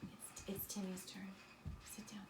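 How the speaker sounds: breathless hushed whisper, no voice. Real, not acted. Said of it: "teacher hushes eager child".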